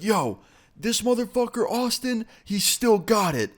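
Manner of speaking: put-on high-pitched drunk hype; amped up. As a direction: brag about your friend like you're buzzing. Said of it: "how amped up Jason was".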